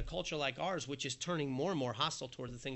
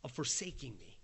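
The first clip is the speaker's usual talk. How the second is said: much softer, wary hesitation; a cautious believer's hushed doubt; hesitant timid doubt; 9 dB quieter than usual. Retold or imitated. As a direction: shrink back at the thought. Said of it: "we might say".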